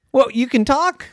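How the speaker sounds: high, loud disbelief; amazed question. A narrator's reading. Maven to a talking bear, high amazed question. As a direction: shoot the pitch up in amazement.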